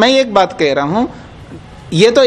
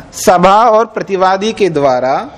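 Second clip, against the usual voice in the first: slow dictation; slower than usual. Acted. Dictating the sutra slowly.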